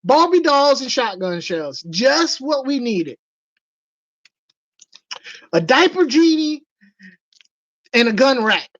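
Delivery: high, excited party-guest voice; mock gushing guests. Imitating baby shower guests raving about the gift. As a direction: gush over the gift. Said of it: "Everybody be like".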